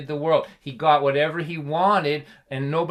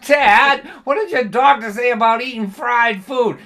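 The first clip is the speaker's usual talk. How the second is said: retold self; 8 semitones higher, 9 dB louder than usual. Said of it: "I'm like".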